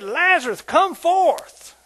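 high, loud command; commanding call. Retold or imitated. Jesus calling Lazarus out, loud high command. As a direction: call him out of the tomb. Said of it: "And Jesus said".

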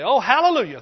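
loud burst of praise instead of a curse; hammed-up loud praise after a stubbed toe; mock exclamation. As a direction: yell hallelujah as if you stubbed your toe. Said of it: "I'd say".

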